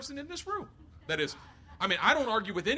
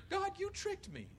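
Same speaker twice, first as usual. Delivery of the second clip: much higher, slow hurt complaint; whiny lament; 14 semitones higher, slower than usual. Retold or imitated. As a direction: whine at God, feeling betrayed. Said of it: "Jeremiah says".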